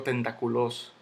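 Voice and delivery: tentaculoso said tentacu-LÓS, stressed at the end; wrong final stress. Shown as a demonstration. Teacher showing how not to say it, stress on final LÓS. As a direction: land hard on the final LÓS. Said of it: "yo no digo tentaculoso".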